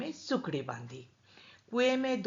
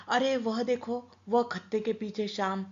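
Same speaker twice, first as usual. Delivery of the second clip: raised, louder cry of discovery; excited call; 5 semitones higher, 4 dB louder than usual. Acted. Bhaskar spotting the hiding boy, excited call. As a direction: point him out, triumphant.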